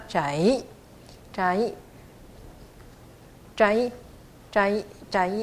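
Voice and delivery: 窄 falls, then lifts on a final "i"; fourth-then-second tone. Shown as a demonstration. Teacher repeating for learners, 窄 falling then rising. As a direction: bend 窄 down, then up into "i". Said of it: "一的地方是二声".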